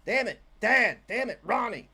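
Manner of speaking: hammed-up groan at dad; mock exasperation. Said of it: "They're like".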